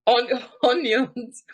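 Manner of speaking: slow, giggling "onions" with a laugh breaking in; real laughter spilling over "On-, onions"; laughing through the word. Real, not acted. Host laughing while reading the viewer's letter aloud. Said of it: "Sorry, I'm laughing".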